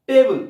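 loud, isolated টেবল; টেবল said loudly for learners to copy; pronunciation demo. Shown as a demonstration. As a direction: call out টেবল clearly on its own. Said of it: "টেবিলটাকে উচ্চারণ করো".

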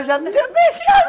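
laughing. Real, not acted. Laughing confession.

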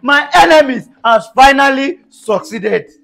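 loud lament; mock lament. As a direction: wail it like a ruined man. Laments lost car.

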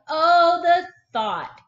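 loud, high dramatic alarm; alarmed gasp. Acted. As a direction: gasp it out with sudden worry. Narrator reacts alarmed.

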